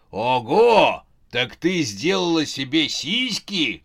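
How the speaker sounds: loud whoop, then slow, high-pitched question; gleefully amazed god's exclamation; astonished exclamation. A narrator's reading. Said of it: "воскликнул рогатый бог". (изумлённый возглас)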